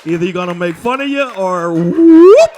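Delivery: shouted, slowed scolding; loud exasperated yell at David; loud mock rebuke. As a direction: bark it back at your friend. Yelling back at David.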